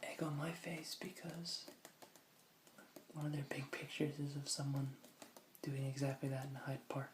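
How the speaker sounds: whispered aside; whispering. Acted. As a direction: drop to a breathy whisper. Whispered aside while reading.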